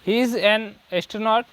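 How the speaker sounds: very slow, word by word dictation; slow example read. Shown as a demonstration. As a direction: read each word slowly for the class. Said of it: "वैसे ही". (धीमे-धीमे उदाहरण पढ़ना)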